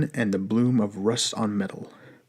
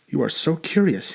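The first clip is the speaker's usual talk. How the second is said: put-on Russian accent; 5 semitones higher than usual. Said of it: "words soaked in the heavy Russian accent".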